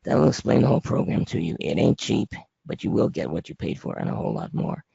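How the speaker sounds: hoarse, raspy speaking voice. Real, not acted. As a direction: talk through a raspy, worn-out throat. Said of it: "Sorry about my raspy voice".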